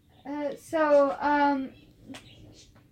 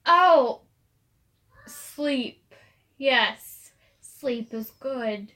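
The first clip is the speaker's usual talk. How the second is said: put-on slow old man; 3 dB louder, much slower than usual.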